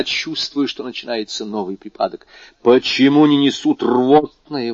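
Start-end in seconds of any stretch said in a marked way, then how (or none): 2.6-4.7 loud, high, drawn-out demand; exclaiming. A narrator's reading. Doctor wanting the emetic at once, exclaiming. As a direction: demand it urgently, raising your voice. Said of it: "воскликнул доктор".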